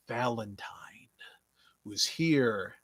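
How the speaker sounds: a slow, hushed whisper of the name; mysterious whisper. Acted. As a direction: breathe the name like a secret. Mysterious wrestler name dramatically introduced.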